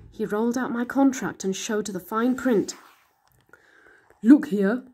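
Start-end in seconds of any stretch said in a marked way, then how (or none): 4.2-4.9 whispered monster aside; sly whisper. A narrator's reading. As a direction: hiss it like a secret trap. Monster shows the fine print.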